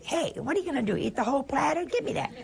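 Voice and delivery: high, boisterous Italian family banter; Italian at the table. Retold or imitated. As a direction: act out a pushy Italian grabbing the platter. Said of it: "We'd say".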